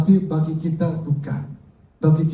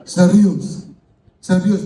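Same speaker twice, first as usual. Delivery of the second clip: laughing; 5 dB louder, slower than usual. Real, not acted. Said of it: "laughing insistence".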